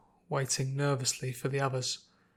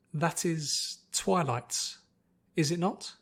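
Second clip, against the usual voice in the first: formal sister; 4 semitones higher, slower than usual. Acted. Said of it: "Her sister's voice and patterns of speech".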